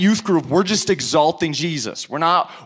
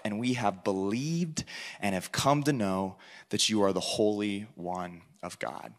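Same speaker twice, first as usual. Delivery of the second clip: lower, solemn reading of the verse; scripture reading; 4 semitones lower, 3 dB quieter than usual. Acted. Reads scripture aloud to congregation.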